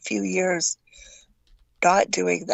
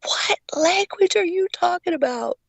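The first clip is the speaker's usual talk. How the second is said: drill instructor voice; 9 semitones higher than usual. Retold or imitated. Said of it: "he's like".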